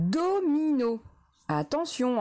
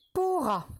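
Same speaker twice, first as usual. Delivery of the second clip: dictating a syllable; 6 semitones higher than usual. Shown as a demonstration. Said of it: "Troisième syllabe".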